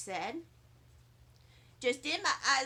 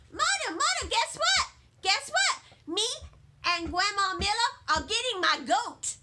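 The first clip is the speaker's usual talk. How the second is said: put-on a child running to mom with news; breathless, eager young girl; excited little girl; 3 semitones higher, 4 dB louder than usual. Junie rushes to mother.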